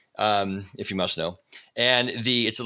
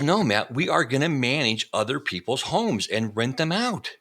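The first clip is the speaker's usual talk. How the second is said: higher, measured and insistent; emphatic retold announcement; 4 semitones higher than usual. Husband retelling his wife's business idea, emphatic. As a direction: spell out the plan as the wife, slowly.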